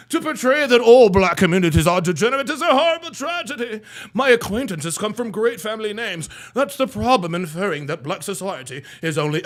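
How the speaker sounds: lightly mocked proper reading; fake proper talk. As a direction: read it with affected, correct diction. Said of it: "that fake ass proper talking ass".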